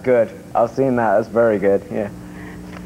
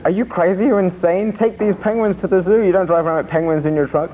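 lightly imitated scolding cop, higher pitch; retold indignant cop; 5 semitones higher than usual. Radio host retells cop finding penguins in his trunk, mock scolding. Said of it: "he said".

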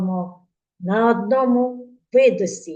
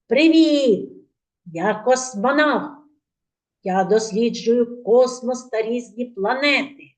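cosmonaut voice; 3 semitones higher than usual. Acted. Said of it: "Ось послухайте, що нам космонавт каже".

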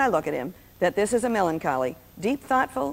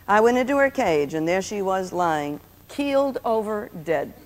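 put-on melancholy child's account; 3 dB quieter than usual. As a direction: imitate a gloomy little boy, falling away at the end. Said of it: "he told this all so melancholy".

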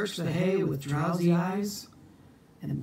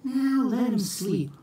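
hushed; 7 semitones higher than usual. Acted. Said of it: "hushed Mama Gwen".

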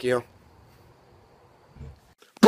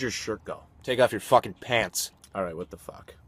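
unvoiced, much lower and softer whisper; 11 semitones lower, 8 dB quieter than usual. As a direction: hush it so nobody hears. Whispering while undressed.

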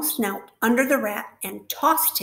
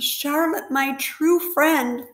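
moaning; 6 semitones higher, 5 dB louder, slower than usual. A narrator's reading. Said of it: "he moaned".

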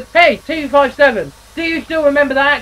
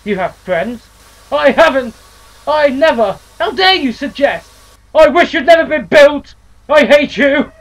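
much louder and higher, slowing into I hate you; furious outburst; 8 semitones higher, 10 dB louder, slower than usual. Acted. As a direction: scream your hurt at him. Eustace's furious outburst at brother.

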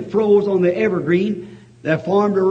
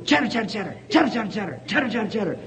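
squirrel chatter; 5 dB quieter, faster than usual. Retold or imitated. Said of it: "began to go".

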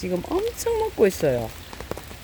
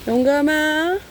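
called out loud and high across the yard; calling out; 9 semitones higher, 3 dB louder, slower than usual. Real, not acted. Calling the cat Yonggam over to eat, loud and high. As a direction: call the cat to come and eat.

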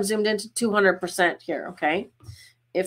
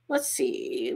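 whispered to self; 7 semitones lower, 6 dB quieter than usual. Real, not acted. Muttering to herself while choosing.

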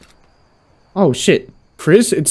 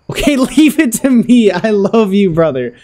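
high mock-sweet agreement, easing down; hammed-up brotherly love; mock devotion; 6 semitones higher, slower than usual. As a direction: play the eager brother, pitched up. Playfully agrees to brother's murder plan.

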